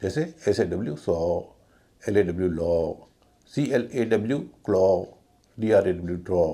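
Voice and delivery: सौ, लॉ, क्लॉ, ड्रॉ each on a long, held aw. Shown as a demonstration. Teacher spelling out examples, long aw ending सौ, लॉ, क्लॉ, ड्रॉ. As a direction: draw out the final aw in सौ, लॉ, क्लॉ and ड्रॉ. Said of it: "लंबा वाला ओ".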